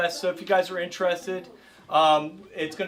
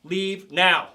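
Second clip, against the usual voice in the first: firm, louder command to back off; 5 dB louder, much slower than usual. Shown as a demonstration. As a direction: tell them plainly to back off. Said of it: "you would just be like".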